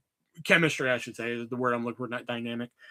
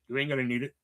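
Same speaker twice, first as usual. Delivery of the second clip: villain line; 4 semitones lower, 7 dB quieter, much faster than usual. Retold or imitated. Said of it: "villainous and perfect".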